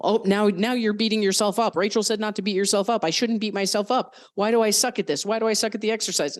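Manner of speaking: a frantic little voice talking itself down; spiraling inner voice. Retold or imitated. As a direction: play the anxious brain spiraling out. Acting spiraling self-talk.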